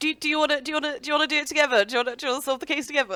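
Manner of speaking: high, fast, excited, gushing fangirl voice.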